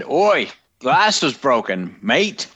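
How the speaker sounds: slow mock Cockney drawl, Oi leaned on. Co-host mocks the parishioner quote in a Cockney accent. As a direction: ham up a Cockney bloke. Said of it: "That's not how he said it".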